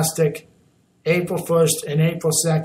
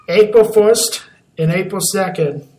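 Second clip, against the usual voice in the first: louder, higher, announcing big news; excited announcement; 4 semitones higher, 5 dB louder than usual. Real, not acted. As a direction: hype it up for listeners.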